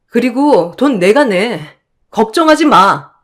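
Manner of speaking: 날카롭게 따져 묻는 아내; 남편 말에 어이없어 쏘아붙이듯. Acted. 남편의 병원비 타령에 발끈. (남편에게 화내며 따지는 아내, 날 선 목소리)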